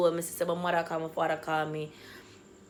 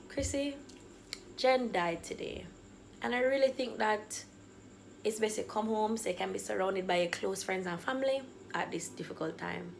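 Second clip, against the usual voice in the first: softened voice, trailing quieter; gentle bad news; 6 dB quieter than usual. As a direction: break the news carefully, as a mother. Mother gently breaks death news.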